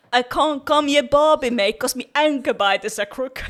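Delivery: hammed-up textbook Australian accent. Friend shows off the Australian textbook line in Australian accent. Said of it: "different accents".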